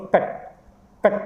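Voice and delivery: कट with a brief uh vowel; short "a" vowel. Shown as a demonstration. Teacher models the word, कट with short uh. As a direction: keep the vowel in कट short, not a full aa. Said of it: "हल्का सा".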